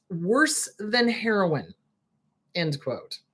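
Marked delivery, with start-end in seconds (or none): 0.1-1.7 mock quoting.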